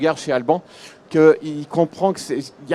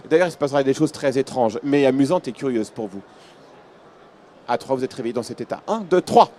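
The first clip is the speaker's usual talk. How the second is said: hypnotic induction. Acted. Hypnotist gives suggestion.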